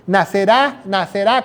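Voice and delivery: NACERÁ, stretched with the stress on the final A. Shown as a demonstration. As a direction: lean on the last syllable of "nacerá". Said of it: "con acento en la A". («nacerá» con acento marcado en la A final)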